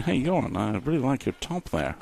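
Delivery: lightly put-on Dutch accent. Commentator dubs Frank's muted interview in a mock Dutch accent. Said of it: "why I gave him a Dutch accent".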